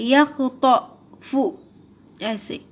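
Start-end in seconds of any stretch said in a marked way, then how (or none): 0.0-1.3 یخطف slowly, with a thick "to" in the middle; slow down and make the T of یخطف heavy. Shown as a demonstration. Teacher showing learners the thick To, heavy T. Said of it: "تو کو موٹا پڑھتے ہیں".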